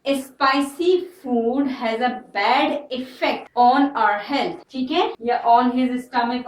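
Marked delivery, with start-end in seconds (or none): 0.1-4.7 very slow, word by word; slow dictation. Shown as a demonstration. Teacher dictating the example to students, very slow.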